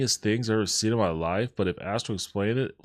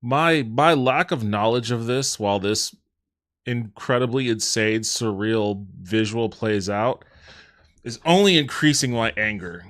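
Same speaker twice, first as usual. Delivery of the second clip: mounting mock anger; 4 dB louder than usual. Real, not acted. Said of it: "I'm getting angry".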